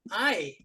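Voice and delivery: "ai" said with an open American ai sound; American vowel. Shown as a demonstration. Teacher demonstrating the American vowel, a clear open "ai". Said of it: "que o americano fala".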